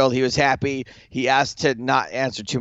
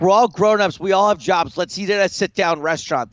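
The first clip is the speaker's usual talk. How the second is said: higher-pitched mock diva insistence on Dumont-free dining; diva-ish; 5 semitones higher than usual. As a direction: play the demanding diva, half in jest. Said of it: "kinda diva-ish".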